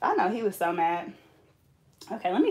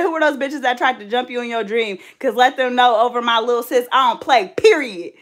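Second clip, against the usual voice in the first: loud, raised playful tough talk; hammed-up big-sister warning, louder on the punchline; mock protective threat; 3 semitones higher, 5 dB louder than usual. Big sister defending her little sis from dream bullies, mock tough.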